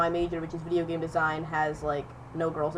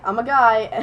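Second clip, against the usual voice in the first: louder, higher retold correction; retold protest; 4 semitones higher, 9 dB louder than usual. Correcting the teacher who misgendered me, retold protest. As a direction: put them right, half laughing afterwards.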